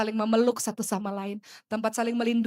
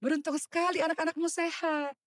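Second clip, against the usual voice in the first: wistful retold words; 5 semitones higher than usual. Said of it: "saya katakan".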